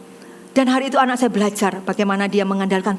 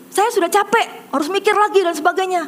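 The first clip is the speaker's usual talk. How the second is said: imitated angry refusal; 7 semitones higher than usual. Contestant refuses to start over, mock angry. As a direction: protest in a raised pitch, as a fed-up contestant. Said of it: "Dia marah-marah, tidak mau".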